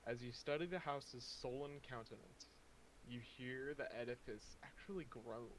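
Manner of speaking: dramatic scene-setting narration; game master narration. A narrator's reading. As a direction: set the gloomy scene. GM scene description.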